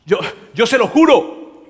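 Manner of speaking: mock-panicked denial under oath; swearing denial. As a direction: protest too much, tripping over words. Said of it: "esta vez con un juramento".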